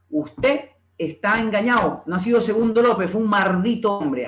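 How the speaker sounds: MALDITO said as MARDITO, ENGAÑADO as engañao; rhotacism. Acted. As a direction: read it with R for L in "maldito". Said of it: "Ahí hay el rotacismo".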